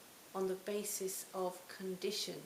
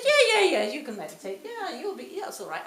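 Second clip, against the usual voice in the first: a higher, loud, breezy mock Scottish accent; terrible Scottish accent; 7 semitones higher, 12 dB louder than usual. Reassuring a doubtful beginner, in a loud, higher mock Scottish accent. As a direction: bounce it in a hammed-up Scottish accent. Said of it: "it's a terrible Scottish accent".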